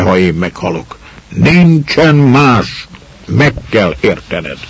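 put-on old lord begging her to give up the child; pleading old lord.

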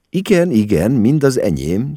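high, chirpy eager answer; chirping. A narrator's reading. Mama assures the customs officer it is all hers, chirping. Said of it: "csicseregte mama".

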